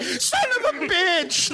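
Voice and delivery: high, slow laughing curse; mock yell. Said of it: "they're like".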